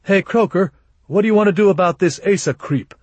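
high, loud holler. Acted. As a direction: call out loudly and quickly to the boss. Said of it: "Haggop hollered".

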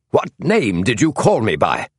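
cold, insistent demand; chill as iron. A narrator's reading. Tall man demanding again from James, chill as iron. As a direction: demand an answer, hard and icy. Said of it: "His tone was as chill as iron in winter".

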